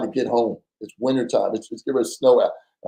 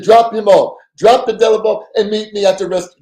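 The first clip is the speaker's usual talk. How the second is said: urgent order; 8 semitones higher, 6 dB louder than usual. Retold or imitated. Partner giving orders heatedly.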